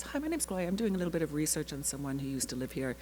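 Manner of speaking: soft, quick, secretive phone voice; a quiet, hurried hello to a realtor; hushed phone voice. Retold or imitated. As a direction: hush it like a secret call. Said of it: "I don't know why I'm whispering it".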